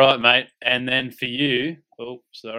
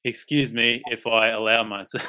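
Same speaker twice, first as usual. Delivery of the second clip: laughing; 2 semitones higher, 5 dB louder than usual. Real, not acted. About to read funny message.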